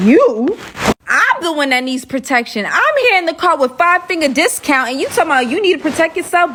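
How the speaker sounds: mock indignation. Passenger retorting to the man with the gun, indignant. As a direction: throw it back in disbelief, speeding up.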